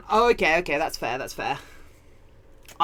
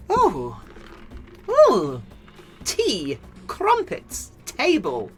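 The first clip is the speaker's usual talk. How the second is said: lightly exaggerated British exclamations, each word on its own; hammed-up British; 2 semitones lower, much slower than usual. Streamer told they sound British, mock-British. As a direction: play up the British accent, word by word. Hams up Britishness after chat remark.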